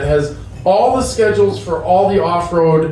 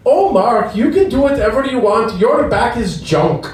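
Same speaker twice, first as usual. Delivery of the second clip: high laughing delivery through the doctor's words; 8 semitones higher than usual. Retold or imitated. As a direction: laugh out the blunt verdict.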